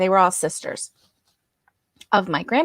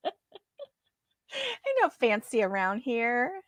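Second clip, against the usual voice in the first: laughing; 3 semitones higher, 5 dB quieter, much slower than usual. Real, not acted. Laughing at own attempted fanciness.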